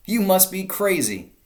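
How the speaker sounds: loud, high mocking call; jeering. A narrator's reading. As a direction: jeer down at them. Crowd jeering at farmers.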